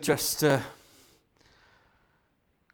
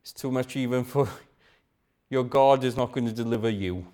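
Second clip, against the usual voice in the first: low, quick voice of a doubting thought; a tempter whispering despair at two in the morning; tempting inner voice; 5 semitones lower, faster than usual. Acted. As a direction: let the doubt slip in low and fast. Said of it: "a thought will come to your mind".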